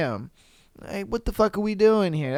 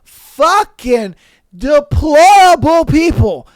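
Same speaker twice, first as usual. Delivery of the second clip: high, slow, loud sanctimonious preaching; ex-wife mocked, slow and much louder; mocking the ex-wife; 6 semitones higher, 7 dB louder, much slower than usual. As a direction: ham up her self-righteous lecture. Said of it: "She's over here just like".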